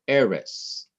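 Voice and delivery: eres with the stress on its first syllable, E. Shown as a demonstration. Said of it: "Emphasize the syllable before the last syllable".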